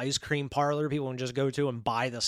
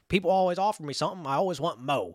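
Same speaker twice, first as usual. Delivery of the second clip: lightly imitating a bad Southern accent, a bit higher at first; mock Southern accent; 3 semitones higher than usual. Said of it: "ridiculous, like, Southern accent".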